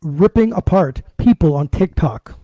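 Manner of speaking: slow, punched promo read with big gaps; drawn-out announcer delivery; show promo announcer. Acted. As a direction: announce it like a fight-night teaser. Announces next week's show.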